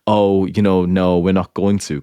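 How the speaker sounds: drawn-out, teasing half-refusal; coy, slow little no; playful token no. Shown as a demonstration. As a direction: say no like you don't quite mean it. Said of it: "There's a certain, like".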